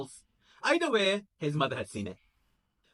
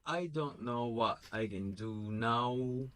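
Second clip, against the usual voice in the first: sheepish; 3 semitones lower, 5 dB quieter, slower than usual. Acted. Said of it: "like a scolded child".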